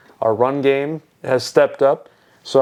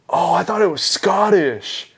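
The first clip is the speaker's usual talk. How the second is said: higher, lightly mocking quote; imitated clueless guy; 5 semitones higher than usual. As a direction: lightly mimic a clueless bystander. Mimicking clueless guy behind them.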